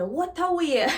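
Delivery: "What a way" jumps high with a laugh; surprised exclamation. Shown as a demonstration. Teacher exclaims the phrase, laughing in surprise. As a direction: exclaim "What a way" as if caught off guard. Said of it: "It's said with a voice of some, like, an exclamative".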